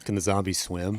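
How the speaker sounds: voiceless hushed question; whispered question about swimming zombies; spooky whisper. Acted. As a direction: whisper it like a horror line.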